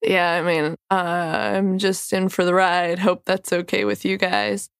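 hoarse sick voice; talking through a cold, hoarse. Real, not acted. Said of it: "recording sick is that I have a sexy voice".

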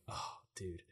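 quiet, disappointed groan of a line; deflated mumble. Retold or imitated. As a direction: let it sink out under your breath. Told the boot goes back on.

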